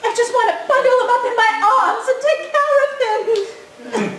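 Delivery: teary, laughing gush over him; tearful coo. Acted. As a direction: sob out the sympathy with a giggle. Sisters weep over Felix.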